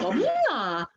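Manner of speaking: Korean dialect saturi. Shown as a demonstration. Teacher showing students a regional Korean dialect form, set against the standard. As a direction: give "Bamuna" a regional Korean dialect twang. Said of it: "Tapi ngomongnya bilang".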